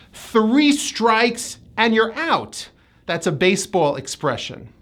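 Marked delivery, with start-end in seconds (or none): 0.1-2.7 slow example with a careful TH-R in Three; Three strikes, spaced out, Three as thuh-REE; TH-R blend. Shown as a demonstration. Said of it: "it's a T H R blend".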